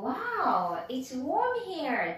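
warm said with an "or" vowel; model English phrase. Shown as a demonstration. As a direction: demonstrate "Wow, it's warm here" with a rounded "or" in warm. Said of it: "っていう風に言ってくださいね".

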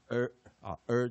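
儿 as a curled-tongue R vowel, untrilled; English 儿 sound. Shown as a demonstration. Teacher showing the trill turned English, smooth retroflex 儿. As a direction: curl the tongue and hold 儿 without rolling it. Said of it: "我们就称它就是儿音啊".

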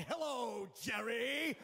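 lightly voiced Kramer greeting; a hint of Kramer sliding in; Michael Richards as Kramer.

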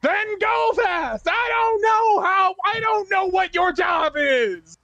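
high, slow, drawn-out yell. Acted. Player demands speed from the crew, yelling. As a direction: holler it, stretching every word. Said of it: "sorry, I'm yelling".

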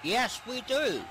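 high, drawn-out excited call; thrilled commentator's cry. Real, not acted. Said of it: "I'm getting excited over here".

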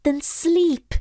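high, slow, loud creature voice; pooka voice. Acted. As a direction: drawl out your confession sadly. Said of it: "replied the pooka".

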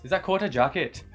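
lightly attempted Welsh accent. Shown as a demonstration. Showing the only phrase they know, shaky Welsh accent attempt. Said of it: "could say in the Welsh accent".

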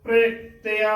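ਪ੍ਰਿਤਿਆ with the r run into the p; quick half r. Shown as a demonstration. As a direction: say ਪ੍ਰਿਤਿਆ as "pre-teaa", r barely separate. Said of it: "ਉਸ ਨੂੰ ਉਚਾਰਨ ਹੋਵੇਗੀ".

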